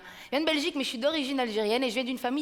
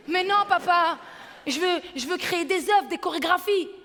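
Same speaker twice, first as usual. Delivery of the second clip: higher, louder earnest protest; protesting daughter; 4 semitones higher, 3 dB louder than usual. Retold or imitated. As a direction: daughter defending her dream. Fille se défend. (fille qui proteste avec passion)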